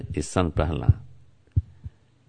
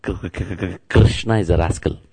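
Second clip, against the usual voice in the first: put-on stuttering child; 3 semitones lower than usual. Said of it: "you know what's the first word?".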